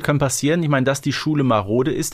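ordinary delivery

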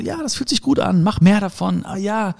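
light, high, dreamy little voice; voice of the heart. Acted. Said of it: "Das Herz sagt so".

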